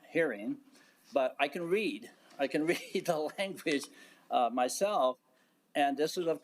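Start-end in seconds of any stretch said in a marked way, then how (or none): 2.4-3.9 a short laugh breaks into the line; wry chuckle mid-phrase; amused aside with a quick laugh. Real, not acted.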